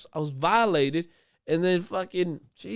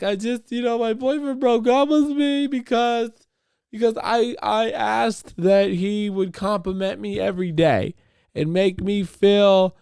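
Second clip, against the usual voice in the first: high, pleading imitation of a sad woman; mimicking the customer; 10 semitones higher, 5 dB louder than usual. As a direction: whine it up high like her. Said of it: "And she was like".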